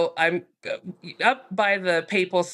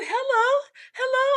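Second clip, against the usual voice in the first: much higher, bright sing-song hello; squealing happy hello to new friends; excited greeting. Retold or imitated. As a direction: greet them with delight. She greets the Italian guys.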